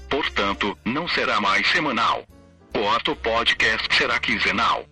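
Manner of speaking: even, machine-read text-to-speech narration; synthesized voice. Real, not acted. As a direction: read it like a computer voice. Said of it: "falo através desta voz sintetizada".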